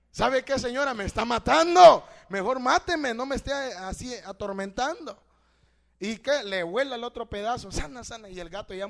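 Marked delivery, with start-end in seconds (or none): 0.1-5.2 loud, desperate cry of a tortured cat; cat pleading. Acted. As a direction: beg the woman to end it, full voice. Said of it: "qué cree que le hubiera dicho el gato". (gato suplicando a gritos a la señora)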